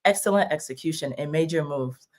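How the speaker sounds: quiet declaration, item by item; affirmation reading. Retold or imitated. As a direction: recite each phrase deliberately, quietly. Reads out her affirmation.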